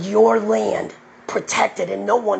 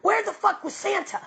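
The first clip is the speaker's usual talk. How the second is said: mocking question; 12 semitones higher than usual. Real, not acted. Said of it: "I like to ask questions".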